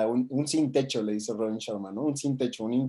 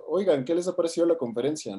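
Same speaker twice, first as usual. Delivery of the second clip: slightly higher voice of a stranger approaching; light, higher conversational opener; retold casual question; 5 semitones higher than usual. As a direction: imitate a passerby politely asking for opinions. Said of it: "llega y les pregunta".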